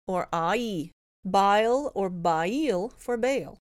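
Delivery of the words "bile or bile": "bile" said with an open "ai" diphthong, like "bail"; "bile" with the old open vowel, rhymes with "file"; old pronunciation. Shown as a demonstration. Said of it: "original pronunciation of words with A I would have been".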